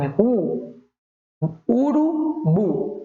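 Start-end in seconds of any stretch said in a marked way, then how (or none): 1.7-2.9 "Urubu" said slowly, higher, last syllable bu stressed. Shown as a demonstration. Teacher stressing the last syllable of "Urubu" for the class. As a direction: stretch "Urubu" and lean on the final bu. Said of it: "A sílaba tônica é a última".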